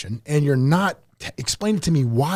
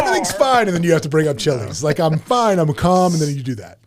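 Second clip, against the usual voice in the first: wrestling promo. Pretend. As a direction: rant like a calm wrestler. Continues the promo rant.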